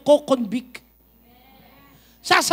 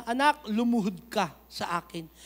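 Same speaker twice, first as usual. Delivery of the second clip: hushed, lower voice of the Lord; voice of God; 5 semitones lower, 5 dB quieter than usual. Retold or imitated. Preacher voicing God telling the bishop to kneel, hushed. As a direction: gently command him to kneel. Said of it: "sabi ni Lord sa kanya".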